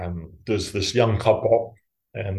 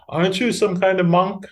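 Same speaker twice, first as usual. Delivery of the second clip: put-on high, curious child voice; lightly imitated little girl, pitched up; ten-year-old girl; 9 semitones higher than usual. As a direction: ask it like an inquisitive kid. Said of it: "ten-year-old girl".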